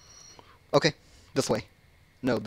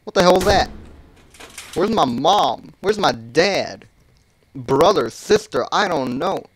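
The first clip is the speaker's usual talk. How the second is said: frightened; 3 semitones higher than usual. Real, not acted. Frightened in horror game.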